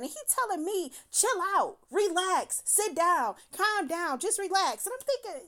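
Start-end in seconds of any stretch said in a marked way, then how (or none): 1.1-4.8 high-pitched, mocking string of commands; retold yelling. Woman mimicking him telling her to calm down, mock yelling. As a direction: reel off his orders in a raised mock yell. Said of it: "And he the one yelling".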